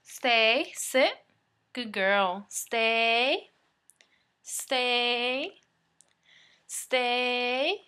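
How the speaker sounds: loud firm command to a dog. Real, not acted. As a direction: bark the command firmly, drawn out.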